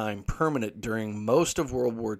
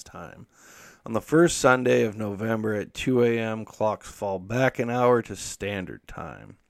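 news read; 5 dB louder than usual. Shown as a demonstration. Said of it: "talk to our friends over at C N N".

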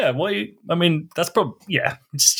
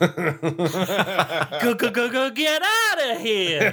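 high, slow, thrilled stutter; stammering excited greeting; 8 semitones higher, slower than usual. Pretend. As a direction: gush it out, stammering with delight. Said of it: "she'll say with a broad grin".

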